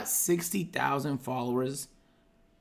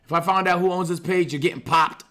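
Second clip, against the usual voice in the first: reading threat comments. Retold or imitated. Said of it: "Let me read these real quick".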